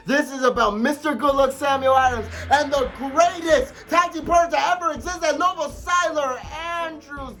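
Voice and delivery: hype shout. Real, not acted. Hyping his tag partner.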